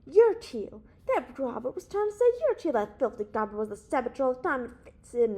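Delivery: loud, high, impassioned outburst; a burst of loud, excited accusation; sudden shout. A narrator's reading. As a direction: yell it out with sudden passion. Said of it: "Bigman shouted suddenly".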